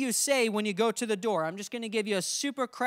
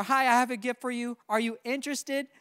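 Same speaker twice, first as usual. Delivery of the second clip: wrong way, asking. Shown as a demonstration.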